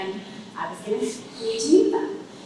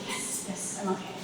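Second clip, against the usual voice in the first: shaken; 2 semitones lower, 14 dB quieter than usual. Retold or imitated. Shaken after aggressive alter ego.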